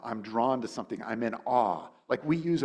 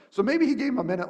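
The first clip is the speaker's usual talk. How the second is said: laughing aside; 11 semitones higher, 7 dB louder, faster than usual. Real, not acted.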